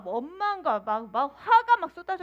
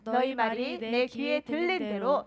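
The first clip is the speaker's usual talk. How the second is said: scripture reading; 3 semitones lower than usual. Shown as a demonstration. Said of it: "읽어봅시다".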